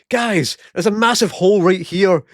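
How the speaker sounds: loud, high call to the crew; shout. Retold or imitated. Johnny calling coworkers over to the hole, loud high shout. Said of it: "And I shout".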